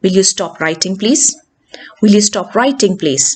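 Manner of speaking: falling tune through "stop writing, please"; question as order. Shown as a demonstration. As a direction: ask it as a command, dropping after "writing". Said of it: "question meant as an order".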